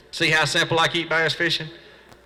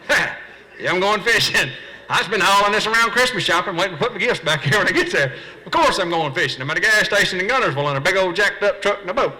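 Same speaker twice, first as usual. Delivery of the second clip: sarcastic reply; 5 semitones higher than usual. Retold or imitated.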